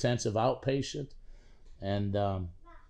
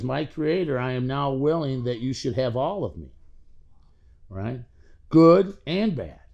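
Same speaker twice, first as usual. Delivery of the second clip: prayer recited firmly, a little raised; prayer recitation; 7 dB louder than usual. Acted. Reciting the seventh step prayer to the group, prayerful. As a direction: recite it as a firm pledge.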